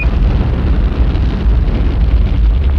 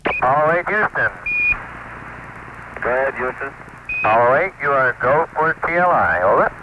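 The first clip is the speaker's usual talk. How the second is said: astronaut radio; 3 dB quieter than usual. Real, not acted. Air-to-ground radio, go for TLI.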